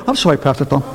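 low, soft, syrupy polite voice; suddenly sweet caller. Retold or imitated. Caller dropping a scream to sweetly greet the pastor, low and soft. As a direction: switch to sugary politeness mid-scream. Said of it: "they go".

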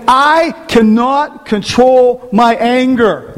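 slow, drawn-out whine; mock excuse. Pastor mimicking people who claim they cannot control anger, slowly. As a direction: stretch every word like a lame excuse. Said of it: "Some people say".

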